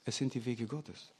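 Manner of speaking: put-on quiet it down as if hushing a child. A narrator's reading. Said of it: "legte seine Finger auf den Mund". (leise, beschwichtigend, wie mit dem Finger auf dem Mund)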